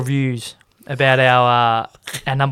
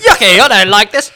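higher, louder mock revulsion; acted disgust; 6 semitones higher, 5 dB louder than usual. Mask wearer rejecting the mask in the car, mock disgust. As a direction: whine it loudly like something revolts you.

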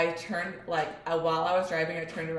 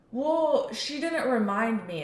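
mimicking son; 6 semitones higher, 4 dB louder, slower than usual. Son making an excuse.

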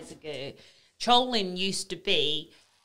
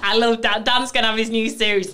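delighted; 4 semitones higher, 11 dB louder than usual. Real, not acted. Delighted reaction to troll story.

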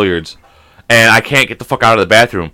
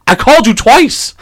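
high, drawn-out protest; indignant mock yell; 10 semitones higher, slower than usual. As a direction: holler it slowly in mock outrage. Imagined angry confrontation with clerk.

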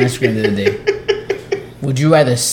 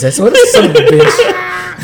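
high, slow words through laughter; helpless laughing remark; laughing hard; 5 dB louder, slower than usual. Real, not acted. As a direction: crack up while talking. Cracking up over photo for Reggie.

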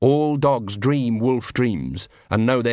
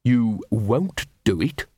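snooty poodle voice; slower than usual. A narrator's reading. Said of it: "said Big Fido".

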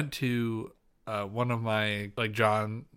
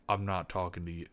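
mock British accent; 5 semitones lower, 6 dB quieter than usual. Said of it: "He's gonna speak like".

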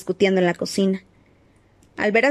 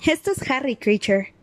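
hesitant; 5 semitones higher than usual. A narrator's reading. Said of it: "dijo Hermione titubeante".

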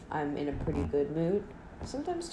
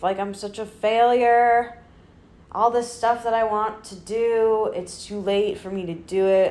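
mock despair; 3 semitones higher, 6 dB louder than usual. Quoting her own monthly breakdown.

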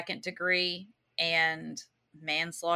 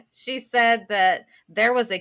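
customer service voice; 4 semitones higher, 8 dB louder than usual. Retold or imitated. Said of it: "my customer service voice".

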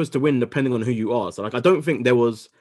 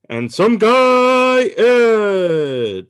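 high, loud, hugely stretched introduction; ring announcer; 11 semitones higher, 8 dB louder, much slower than usual. Pretend. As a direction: hold the words long, then slide down on the name. Announcing the co-host.

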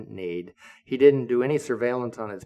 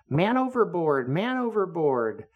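man overboard shout; 7 semitones higher than usual. Retold or imitated. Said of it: "things like".

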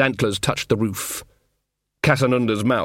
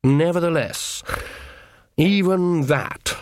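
higher, drawn-out lordly voice; brooding horned god; 6 semitones higher, slower than usual. A narrator's reading. Horned king pondering his return, drawn out. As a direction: hold on to each word.

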